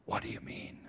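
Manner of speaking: hushed, voiceless question; soft answering whisper; whispering back. Retold or imitated. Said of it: "And I'll whisper back".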